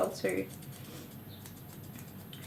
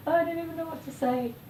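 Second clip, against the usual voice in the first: higher disbelieving repeat; 8 semitones higher than usual. Real, not acted.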